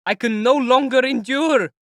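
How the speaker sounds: slow, very high and loud cry; desperate furious cry; furious shout. Acted. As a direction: drag each word out in rage. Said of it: "Raskolnikov shouted in fury".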